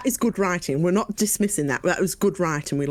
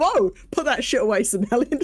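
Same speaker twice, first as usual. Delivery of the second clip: laughing mock scold; playful tell-off; a hint of scolding through laughter; 3 semitones higher than usual. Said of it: "You might as well".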